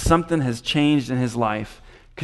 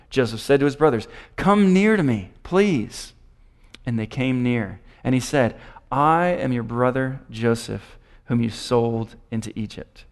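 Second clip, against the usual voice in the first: scripture reading. Acted. Preacher reads Joseph's words to the congregation, scripture reading. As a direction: read the verse out, raising the quoted words.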